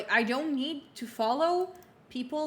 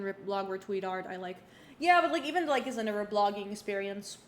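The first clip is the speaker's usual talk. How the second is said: mouth full. Real, not acted. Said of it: "I have a cucumber in my mouth".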